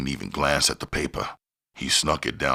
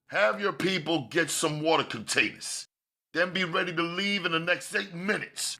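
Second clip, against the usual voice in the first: higher, curt commanding order; sharp order; 6 dB quieter than usual. Acted. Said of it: "Kenyatta ordered sharply".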